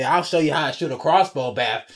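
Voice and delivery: lightly hammed-up drunk boast; imitating drunk Daryl. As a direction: show off like a tipsy loudmouth.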